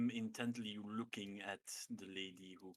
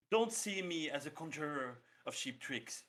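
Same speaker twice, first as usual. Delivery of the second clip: cold threat; 4 semitones higher, 9 dB louder than usual. Acted. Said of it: "I start very coldly, I'm saying".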